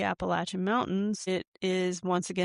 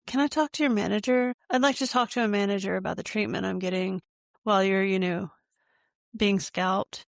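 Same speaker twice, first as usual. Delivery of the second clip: mock Karen complaint; faster than usual. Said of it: "No Karens had a manager".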